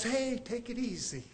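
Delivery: soft, easygoing retold reassurance; nonchalant calm. Coworker soothing the panicked boss, nonchalant calm. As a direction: play it unbothered, quietly. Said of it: "this guy as just nonchalant".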